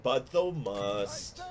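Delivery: slow mock-solemn "thou must"; mock archaic. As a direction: intone it like an old RPG prompt. Quoting game's forced choice.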